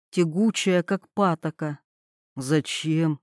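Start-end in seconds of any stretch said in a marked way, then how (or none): 2.4-3.2 low, soft, emotionless; lightly voiced indifferent man. A narrator's reading. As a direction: say it cold and flat. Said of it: "без эмоций".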